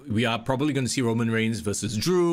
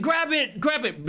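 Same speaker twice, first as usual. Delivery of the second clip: retold yell; 10 semitones higher than usual. Host retelling a wrestler's call in the ring, imitated yell. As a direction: imitate someone yelling urgently, pitch jumping up. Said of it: "He was yelling".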